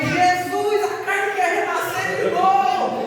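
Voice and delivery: retold desperate plea, loud; urgent prayer. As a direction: call out to God to hold back anger. Praying under anger, retold.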